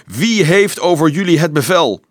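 loud, high commanding shout; calling down. A narrator's reading. Officer to frightened children below, calling down. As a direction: project it from high on the battlements. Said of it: "riep naar beneden".

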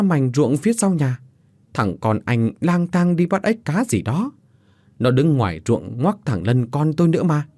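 giọng ông hàng xóm hơi cao, thắc mắc; a lightly voiced curious old neighbour. Ông Tứ kể chuyện con. (giọng ông Tứ hơi cao, thắc mắc)

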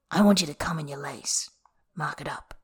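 soft, voiceless order fading away; whispered command. Acted. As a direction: whisper the order close to his ear. Bai's whispered command to lover.

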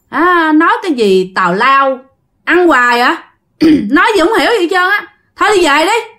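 giả giọng đứa nhỏ hỗn, càng nói càng cao; cãi xấc với người lớn, đuổi thẳng; hỗn hào. Retold or imitated. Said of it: "ông ba hổn, ông ba nói vậy nè". (giọng trẻ hỗn xược kể lại)

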